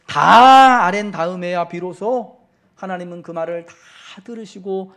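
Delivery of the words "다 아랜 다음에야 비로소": loud, slow emphatic surge; slow booming pulpit emphasis; fervent preaching. Acted. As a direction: lean hard into every word. Preacher stresses telling God everything.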